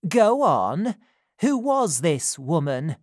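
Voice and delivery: hungry for the secret; eager. A narrator's reading. Missus Corney urging old Sally, eager.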